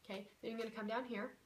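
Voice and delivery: hushed distressed list of emotions; hushed anguish. Shown as a demonstration. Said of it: "and you say".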